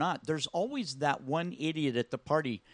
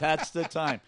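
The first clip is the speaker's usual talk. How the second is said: laughing. Real, not acted. Laughing agreement.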